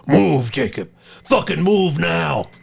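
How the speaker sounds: retold scream. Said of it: "I screamed at the top of my lungs".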